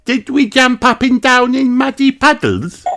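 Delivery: put-on high, eager child question; asking. A narrator's reading. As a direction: ask eagerly like a little girl. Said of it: "she asked".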